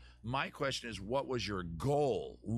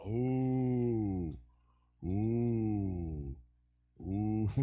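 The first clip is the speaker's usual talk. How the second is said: long ooh; much slower than usual. Real, not acted. Reacting with drawn-out hoots.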